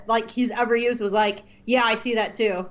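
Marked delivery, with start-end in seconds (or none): 1.7-2.7 flat, bored Jar Jar line; deadpan Jar Jar voice. Retold or imitated. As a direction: say it like you couldn't care less, as Jar Jar. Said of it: "the most deadpan Jar Jar voice".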